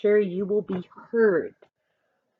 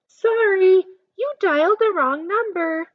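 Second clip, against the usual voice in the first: polite phone voice; 11 semitones higher, 4 dB louder than usual. Acted. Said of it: "She's using good manners".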